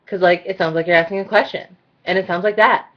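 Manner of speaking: rising lilt on phrase endings; question-like statements. Shown as a demonstration. Showing how it sounds when comments become questions, uptalk. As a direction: say statements as if asking.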